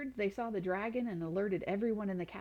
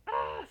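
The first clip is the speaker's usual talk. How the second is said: scream; 4 dB louder than usual. A narrator's reading. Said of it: "screamed Radius".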